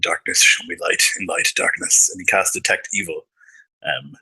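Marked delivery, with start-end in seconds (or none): 0.0-2.1 hushed whisper, spoken quietly to oneself. A character on high alert whispers to himself before casting a spell, whispering to himself. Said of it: "he whispers to himself".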